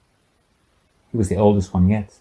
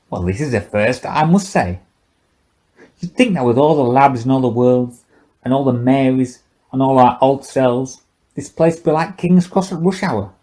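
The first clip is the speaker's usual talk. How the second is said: put-on higher, loose drunken old man's voice; drunk old scientist; 3 semitones higher than usual. Old scientist taunting the silent girl, tipsy and mocking.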